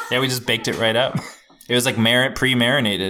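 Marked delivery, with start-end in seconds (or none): 0.1-1.2 laughing. Real, not acted. Jokes while laughing.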